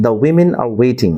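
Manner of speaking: very slow, each word of the women are waiting drawn out; slow model sentence. Shown as a demonstration. Teacher slowly demonstrates an example sentence. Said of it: "For example".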